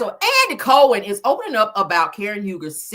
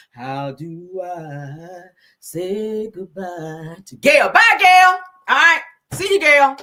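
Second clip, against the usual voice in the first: tearful goodbye; 6 dB louder, much slower than usual. Real, not acted. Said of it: "I don't like to be crying".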